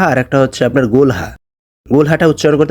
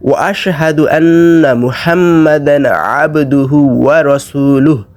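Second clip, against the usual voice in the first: slow, melodic Arabic recitation; careful recitation; slower than usual. Shown as a demonstration. Teacher reciting the second line, slow recitation. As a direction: hold the long vowels evenly.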